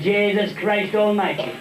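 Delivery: slow, drawn-out oath; long exasperated groan of an oath; comic exasperation. Acted. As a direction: stretch each word in mock despair. Paddy's exasperation at his sandwich.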